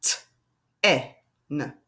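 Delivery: T, E, N split into separate sounds, finger taps; sounding out sounds. Shown as a demonstration. Teacher showing the second way to tap ten. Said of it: "Or I can do like this".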